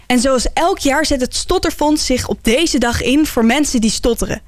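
measured, articulate presenter read; scripted radio intro. Acted. Presenter introducing a stuttering special to listeners, scripted radio read. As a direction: read it as a programme introduction, with neat pauses.

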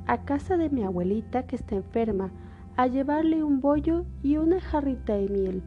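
put-on a trusting child giving directions; little girl voice. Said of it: "dijo Caperucita". (voz de niña inocente)

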